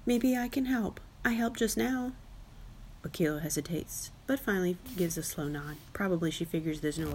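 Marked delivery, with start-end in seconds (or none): 0.0-2.1 put-on higher-pitched young elephant voice; child's appeal. A narrator's reading. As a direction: make the case like an eager child. Child argues to be let along.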